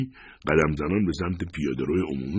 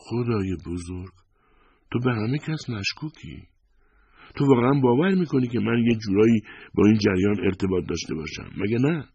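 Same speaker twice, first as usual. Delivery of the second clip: appalled and disbelieving, pitch raised; incredulous protest; 7 semitones higher than usual. A narrator's reading.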